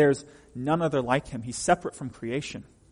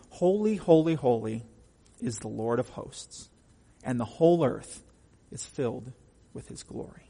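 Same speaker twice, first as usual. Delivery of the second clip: solemn scripture reading. Acted. Reads scripture aloud.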